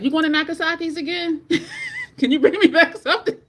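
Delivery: high, loud giggly begging; eager laughing ask. Retold or imitated. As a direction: laugh through the eager request. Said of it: "I'm like".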